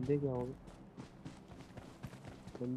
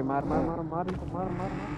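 rapid repeated kill urging; urgent callout; 4 semitones higher than usual. Real, not acted. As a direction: urge them to shoot now. Urging teammate to shoot enemies.

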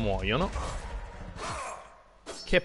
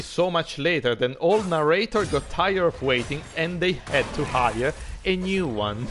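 lightly voiced game narrator; quoting a meme narrator line; narrator quote; 2 semitones higher than usual. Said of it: "Le grandi citazioni". (citazione con voce da narratore)

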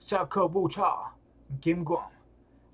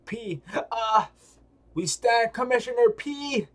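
game character voice; 6 semitones higher, 4 dB louder than usual. Acted. Voicing game character introduction.

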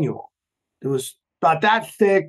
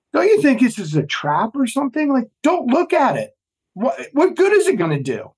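incredulous warning; 6 semitones higher than usual. Retold or imitated. Retold warning to gullible teammates.

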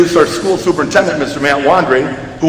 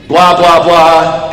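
صوت ساخر من الخطب المملة; 4 dB louder, much slower than usual. Acted. Mock droning graduation speech filler.

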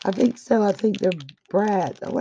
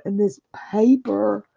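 whisper. Real, not acted. Showing gift paper, hushed aside.

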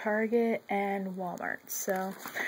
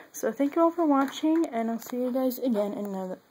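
speaking around a retainer; talking with retainers in; wearing a retainer. Real, not acted. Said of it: "that's why I'm talking very strangely".

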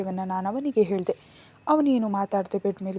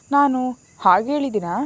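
tearful voice; 4 semitones higher, 6 dB louder than usual. A narrator's reading. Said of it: "ಅಳುವ ಧ್ವನಿಯಲ್ಲಿ ಹೇಳ್ದೆ".

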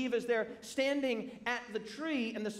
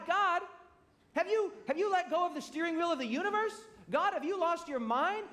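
raised, pleading cry of the psalmist to God; anguished psalmist; 5 semitones higher than usual. Retold or imitated. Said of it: "the writers of Scripture are saying to God".

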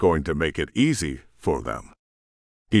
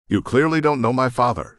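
scoffing; 4 semitones higher than usual. Acted. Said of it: "she scoffed".

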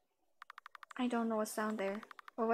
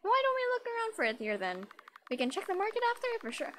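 character voice; 9 semitones higher than usual. Acted. Voicing the game character.

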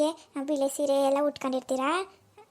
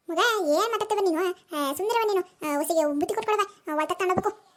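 scolding mother-in-law; 3 semitones higher than usual. Acted. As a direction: scold the late son like a fed-up village mother-in-law. Mother-in-law orders the daughter-in-law.

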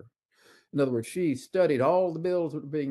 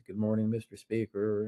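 a hint of a deferential doorkeeper; lightly voiced polite greeting to the Speaker; respectful greeting; 2 semitones lower than usual. Doorkeeper greeting the Speaker with light deference. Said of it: "I'd always see the Speaker".

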